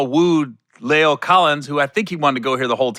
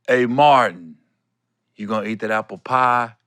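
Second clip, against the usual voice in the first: calm PA; 5 semitones lower than usual. Retold or imitated. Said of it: "talked like that and was so calm".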